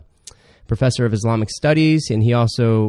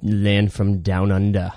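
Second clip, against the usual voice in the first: slow, put-on Aussie accent; Australian accent; 2 semitones lower, slower than usual. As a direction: try out an Australian twang. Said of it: "try our Australian accent out".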